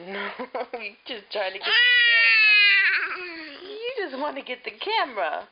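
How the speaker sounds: laughing loudly while talking. Real, not acted. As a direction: laugh the words out. Laughing at baby grabbing camera.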